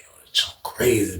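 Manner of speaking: low, barely voiced aside; hushed disbelief. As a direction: mutter it almost under your breath. Muttered reaction while secretly watching.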